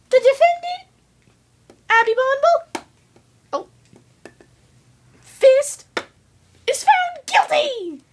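high, loud pompous pronouncement; judge's verdict. Acted. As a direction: proclaim the sentence grandly.

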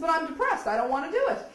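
retold whine refusing Doctor Greer's project; whiny protest. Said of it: "I said".

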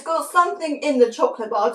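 food in mouth; talking while chewing. Real, not acted. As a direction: fingers at lips. Seen 0: hand brings food to lips, fingers hold small piece while talking.

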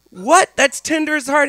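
high, loud disbelief; shocked. Retold or imitated. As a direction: blurt it out in disbelief. Shocked reaction.

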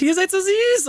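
high delighted coo over the cubs. Real, not acted. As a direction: squeal with delight at the babies. Cooing over fox cubs. (entzücktes hohes Quietschen)

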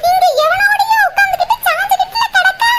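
high wailing scold with laughter breaking in; half-laughing outraged yelling at her sister; scandalized shout. Acted.

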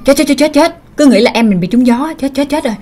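acted alarm, fretting over a brother; worried, repetitive exclamation; panicked muttering. Brother panics over sick sibling.

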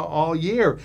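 ordinary delivery

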